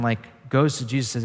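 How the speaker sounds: ordinary talk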